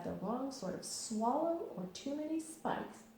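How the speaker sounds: lightly sung-song rhyming recitation; reciting a poem. A narrator's reading. Pooh recites his poem to Piglet, sing-song rhyming verse. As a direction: recite it like a proud little bear poet.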